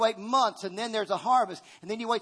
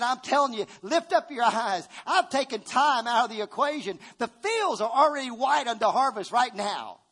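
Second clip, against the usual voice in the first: voicing God higher and louder, declaring; God speaking; 3 semitones higher, 4 dB louder than usual. Preacher voicing God's promise to the church, raised and emphatic. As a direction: proclaim it as God's own words, lifted high. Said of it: "But he said".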